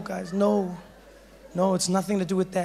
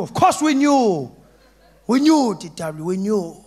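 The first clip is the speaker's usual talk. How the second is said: loud insistence; 6 dB louder than usual. Retold or imitated. Friends tell the boy they always knew, loud. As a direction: insist it proudly.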